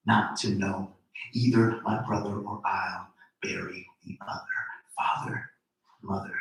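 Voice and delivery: slow, measured poetry reading; poem reading. Acted. Poet reading her poem to the audience, measured. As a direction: read each line as a spoken poem.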